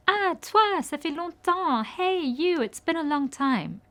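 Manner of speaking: put-on surprised to see an old friend; happy surprise. Shown as a demonstration.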